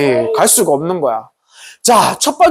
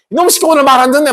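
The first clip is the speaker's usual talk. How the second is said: fast, higher scolding of the donkey; 5 semitones higher, faster than usual. Acted. Balaam kicking his donkey, fast angry scolding. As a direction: curse it as you kick. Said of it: "막 그러면서 발로도 차고".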